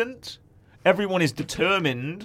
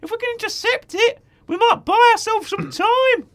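nervous; 5 dB louder than usual. Acted.

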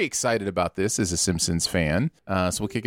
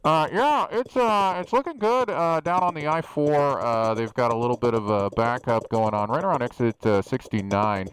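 traffic reporter. Acted. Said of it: "Aaron in the helicopter".

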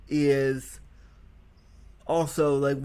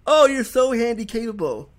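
mimicking a cheerful man; 8 semitones higher, 7 dB louder than usual. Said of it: "and he goes".

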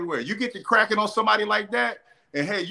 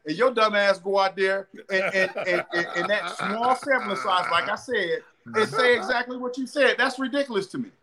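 higher-pitched fed-up coach; exasperated rant; 3 semitones higher than usual. Retold or imitated. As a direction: vent like a frustrated coach. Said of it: "I'm like".

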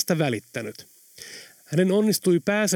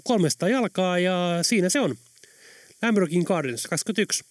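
lightly voiced driver reeling off the route, a bit higher; cheeky taxi driver; 5 semitones higher than usual. Tom Tom recites the whole route to the passengers, pitched up. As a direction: rattle off the streets like a know-it-all cabbie.

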